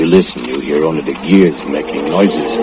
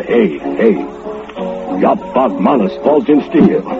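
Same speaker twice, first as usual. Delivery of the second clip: retold alarm; 8 semitones higher than usual. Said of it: "you hear me holler".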